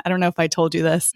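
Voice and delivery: quick whispered aside. Real, not acted. Aside confiding to co-host.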